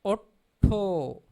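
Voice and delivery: "Otto" said loud, the first o held long; loud model reading of "Otto"; long vowel. Shown as a demonstration. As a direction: stretch the o in "Otto". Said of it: "that's a long way".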